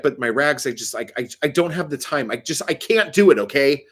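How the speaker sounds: flustered, stammering mock complaint; imitating someone pissed off. Imitating the store worker defending herself, getting pissed off. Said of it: "she was getting all fucking pissed off".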